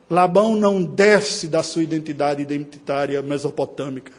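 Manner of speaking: ordinary delivery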